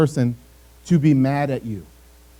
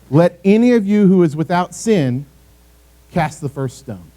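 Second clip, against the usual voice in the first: gentle words. Retold or imitated. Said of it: "He used gentle words".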